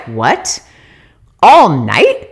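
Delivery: can't believe the good news; surprised disbelief. Retold or imitated. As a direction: pitch drop then loud rising question. Disbelief at driver's offer.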